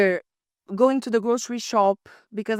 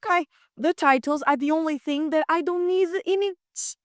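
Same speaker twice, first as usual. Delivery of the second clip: sarcastic, pitched up; deadpan irony at the teacher; 6 semitones higher than usual. Retold or imitated. Retold sarcastic reply.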